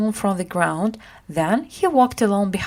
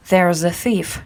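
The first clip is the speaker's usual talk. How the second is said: louder outcry at the thief; crying out; 4 dB louder than usual. Acted. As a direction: call the street's attention, louder. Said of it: "she cried".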